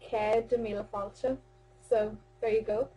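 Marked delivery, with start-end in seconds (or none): 0.0-1.4 measured, teaching-pace "Cead a míle fáilte"; slowly for learners. Shown as a demonstration. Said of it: "I'll say it again slowly for you".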